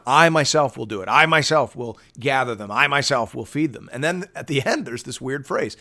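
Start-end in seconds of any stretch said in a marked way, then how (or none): 0.0-3.9 emphatic voice of God. Retold or imitated. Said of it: "And he goes on and on".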